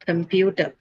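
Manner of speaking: "computer" with "pu" stressed, falling after it; stress on second syllable. Shown as a demonstration. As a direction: lean on the middle syllable of "computer". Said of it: "It remains on the same thing".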